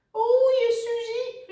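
high, loud call to row; high-pitched shouted command; urgent shout. A narrator's reading. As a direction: call out the order at full voice. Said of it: "riep Lodewijk".

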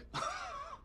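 high, scoffing laugh; derisive laugh. Acted. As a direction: laugh sarcastically in disbelief. Bitter laugh in marital quarrel.

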